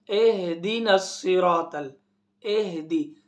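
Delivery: "इहदिना" spoken as "ehdina"; common mispronunciation. Shown as a demonstration. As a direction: say "इहदी" with an e at the start. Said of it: "आप क्या पढ़ते हैं?". ("इहदिना" को गलत, "एहदिना" जैसा)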